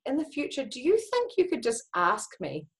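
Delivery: put-on soft, gentle talk to a child; gentle explanation. Mother explaining to her daughter softly. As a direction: let her down softly and kindly. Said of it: "But I was like".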